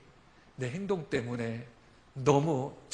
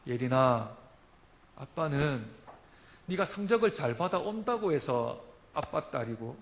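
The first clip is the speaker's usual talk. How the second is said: tender father; 3 semitones higher, 5 dB louder than usual. Retold or imitated. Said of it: "이렇게 딸에게 말했습니다".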